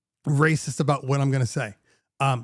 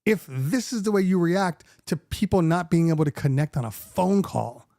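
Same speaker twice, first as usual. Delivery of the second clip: exasperated retort; 5 semitones higher than usual. Retold or imitated. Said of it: "And I'm like".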